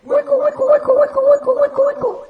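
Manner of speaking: playful echo repeats; echo effect. Pretend. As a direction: bounce the word back like an echo. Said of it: "tienes mucho eco".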